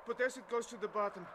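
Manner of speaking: pleading aloud to heaven; calling out to God. Acted. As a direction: cry out to God, opening and ending strongest. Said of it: "I called out to God".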